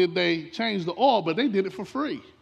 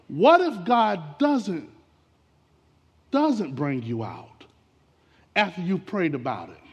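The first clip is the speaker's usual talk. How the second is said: slow, pressing preacher questions that climb; rising sermon appeal; preaching build. Acted. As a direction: lean into each what if, building. Preaching climax, repeated questions.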